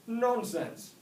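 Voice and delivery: high, loud scoffing dad; a snail dad dismissing his son. A narrator's reading. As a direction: brush the idea off. Dad voiced.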